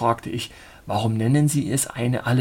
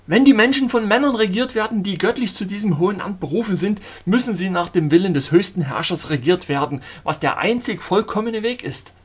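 higher and louder, zealous sermonizing; fervent preacher voice; 8 semitones higher, 4 dB louder than usual. A narrator's reading. Zealot lecturing the traveller on God's rule, fervent. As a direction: preach it like a fanatic prophet. Zealot affirms divine calling.

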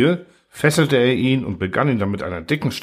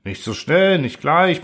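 higher, urgent protest; 6 semitones higher than usual. Acted. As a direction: hold him back, insistent. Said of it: "protestierte Klapautius".

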